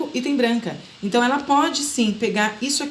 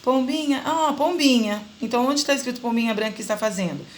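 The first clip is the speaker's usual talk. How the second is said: put-on prompting a child; 4 semitones higher than usual. Shown as a demonstration. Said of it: "resgatando a memória dela".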